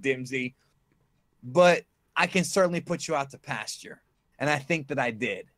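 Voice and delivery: a light Terry Funk-style wrestling promo; mildly hammed-up wrestler trash talk. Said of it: "I'm doing the Terry Funk".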